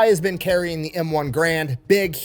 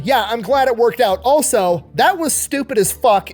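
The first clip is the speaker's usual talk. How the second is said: emphatic mock reprimand, higher at the start; retold chewing-out; 3 semitones higher than usual. Captain scolding a Marine who slipped off alone, retold chewing-out. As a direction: imitate an officer laying down the law. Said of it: "starts chewing his fucking ass".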